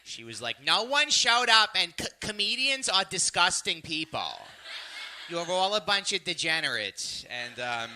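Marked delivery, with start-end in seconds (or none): 0.6-7.2 mock rage. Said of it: "her Staten Island rage".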